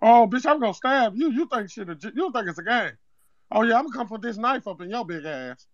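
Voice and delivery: put-on Zeke accent; Zeke-style street accent. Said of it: "that accent funny as shit".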